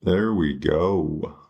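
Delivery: slow, falling there we go; slow satisfied drawl. Real, not acted. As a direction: draw it out, pleased. Savouring the trade, repeated.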